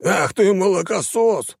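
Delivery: slow, high furious snarl; growled curse. A narrator's reading. Baron snarling at the student from the ground, furious. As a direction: snarl it as you get up. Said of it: "зарычал мужчина".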